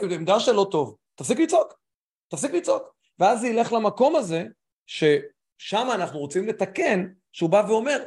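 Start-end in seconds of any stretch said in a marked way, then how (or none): 1.1-1.7 high and loud, mock command to stop; mock shout. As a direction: bark it like a sharp order. Acting advice to angry spouse.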